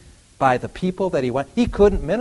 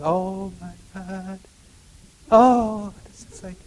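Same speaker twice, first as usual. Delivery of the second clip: mock panic; 6 semitones higher, 4 dB louder, slower than usual. Mocking worriers' panic.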